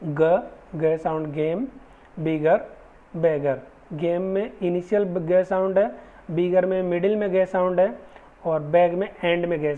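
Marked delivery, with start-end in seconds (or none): 0.0-3.6 "ग" said slowly and clearly as a hard g, like in "गेम"; careful g sound demo. Shown as a demonstration. Teacher to students, careful slow demo of "ग". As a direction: sound out "बिगर" and "बैगर" deliberately. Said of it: "एक बार आप ध्यान से इसको सुनना".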